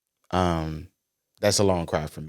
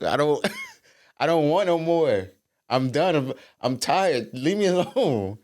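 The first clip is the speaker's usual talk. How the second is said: laughing protest; 9 semitones higher than usual. Retold or imitated. Retelling being too high.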